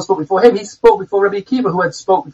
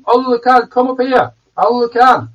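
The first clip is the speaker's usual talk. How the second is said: heavenly voice calling; 6 semitones higher than usual. Retold or imitated. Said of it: "Baskol said".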